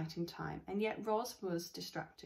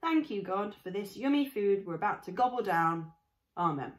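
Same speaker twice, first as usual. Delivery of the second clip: put-on girl's prayer; 5 dB louder than usual. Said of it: "The girl lowered her head".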